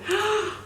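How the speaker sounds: high, quick gasp for breath. Real, not acted. So excited she's hyperventilating, sharp gasp. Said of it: "hyperventilating right now".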